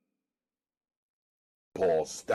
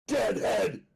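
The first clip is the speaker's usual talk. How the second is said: "Dead head." repeated, amused and falling; laughing reprise; 5 dB louder than usual. Acted. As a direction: chuckle "Dead head." to himself. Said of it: "burst out laughing".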